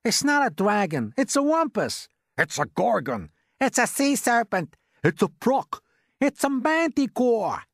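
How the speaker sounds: a volley of high alarmed cries; panicked shouting. A narrator's reading. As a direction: shout each guess in panic. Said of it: "all started shouting at once".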